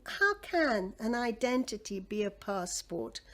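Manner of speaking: ordinary talk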